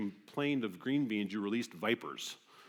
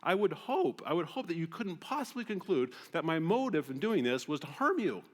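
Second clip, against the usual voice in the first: higher, pleading sincerity; earnest father; 5 semitones higher than usual. Retold or imitated. Father explaining to his sassy daughter, sincere. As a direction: reason gently with a hurt child. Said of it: "the father would say".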